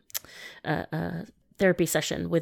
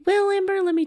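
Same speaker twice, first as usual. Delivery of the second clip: mock wise voice; 13 semitones higher, 5 dB louder than usual. Mock sage answer.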